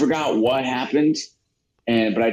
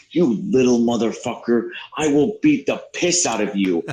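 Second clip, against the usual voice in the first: mildly angry imitation of a teacher; retold berating. Teacher berating a boy in the hallway, mock anger. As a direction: act out a threat without raising the voice much. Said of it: "he starts berating me".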